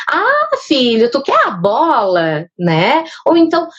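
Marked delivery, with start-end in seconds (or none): 0.1-2.5 put-on slow, kindly mother checking with her toddler; mother gently offers the right word "bola"; gentle mother. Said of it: "por exemplo".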